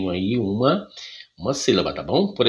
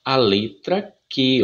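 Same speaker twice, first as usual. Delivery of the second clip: slow demo; slower than usual. Shown as a demonstration. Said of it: "É assim que vocês vão aprender".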